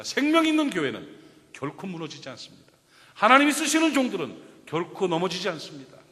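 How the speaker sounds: loud, ringing declaration from the pulpit; forceful preaching. Acted. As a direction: proclaim it with full conviction.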